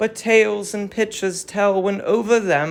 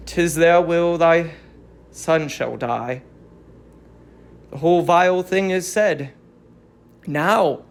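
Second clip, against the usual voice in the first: lower, heavy voice of a herald who dreads his news; reluctant herald; 3 semitones lower than usual. Acted. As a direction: speak as a herald unwilling to deliver the message. Herald speaks the verdict.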